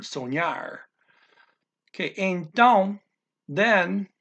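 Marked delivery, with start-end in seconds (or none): 0.0-0.8 "soñar" with the weight on the final "ñar"; teacher's model of "soñar", emphasis at the end; stress on last syllable. Shown as a demonstration. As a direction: say "soñar" as sone-YAR. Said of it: "put the emphasis on the last".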